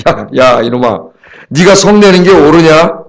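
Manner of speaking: slow, mildly stern divine rebuke; God chiding. Retold or imitated. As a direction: chide slowly, like God with a sulking servant. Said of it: "하나님 뭐 화를 내고 막 싫어하니까". (하나님이 가볍게 꾸짖듯 느린 말투)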